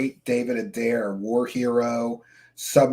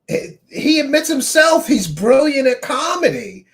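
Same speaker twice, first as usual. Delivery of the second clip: sarcastic; 10 semitones higher, 4 dB louder than usual. Pretend. Sarcastic mock praise.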